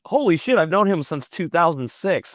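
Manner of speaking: high-pitched exclamation, easing down; retold amazement. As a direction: imitate a friend blown away by it. Voices friend's amazed reply.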